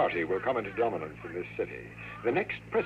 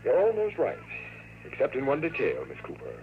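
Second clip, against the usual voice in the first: gloating; 4 semitones higher than usual. Acted. Villain gloats over them.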